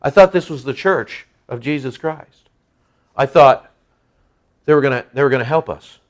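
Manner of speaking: quiet, subdued disappointment, lightly acted; let-down newcomer. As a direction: voice the hurt man softly. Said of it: "And this guy".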